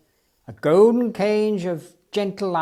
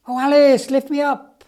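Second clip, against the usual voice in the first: much higher, louder eager call; excited cry; 9 semitones higher, 9 dB louder than usual. Acted. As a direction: beg the elephant to lift you up, thrilled. Banny hears his circus coming.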